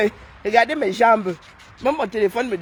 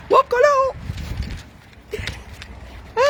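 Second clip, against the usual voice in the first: joyful shout. Real, not acted. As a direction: shout it with glee. Cri de joie. (cri de joie aigu et fort)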